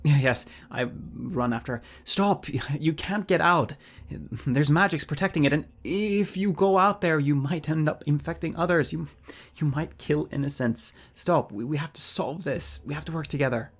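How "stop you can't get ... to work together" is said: loud, raised pleading shout; urgent call. Acted. Bard runs after the fleeing woman, urgent shouting. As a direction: call after her to stop.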